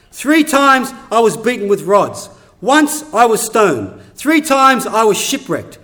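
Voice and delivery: forceful preaching with punched key words; impassioned scripture reading. Acted. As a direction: hammer out each hardship as Paul. Preacher reads Paul's hardships forcefully.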